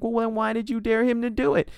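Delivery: high, reasoning big-sister voice; imitating the sensible sister. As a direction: talk sense into her in a high mock voice.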